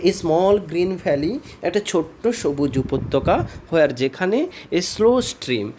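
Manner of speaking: slow, drawn-out poem recitation, line by line; slow poem reading. Shown as a demonstration. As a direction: read each verse phrase slowly to the class. Reads poem lines slowly.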